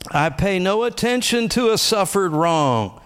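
spoken confession. Shown as a demonstration. Pastor reading personalized scripture to church, high declaring. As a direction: proclaim each line as your own creed. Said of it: "speak it out loud like the confessions".

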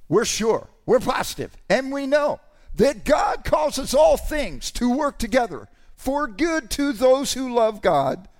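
full-force preacher's shout; fervent shout. Real, not acted. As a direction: proclaim it with full conviction. Quoting scripture with fervor.

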